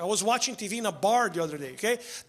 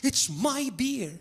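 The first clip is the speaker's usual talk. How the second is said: whiny beer drinker; 3 semitones higher, much slower than usual. Retold or imitated. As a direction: sulk like a man defending his beer. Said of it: "People are like".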